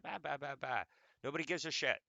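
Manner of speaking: fed up, blurt it out loud; exasperated outburst. Real, not acted. Fed up with relatives' questions, exasperated loud blurt.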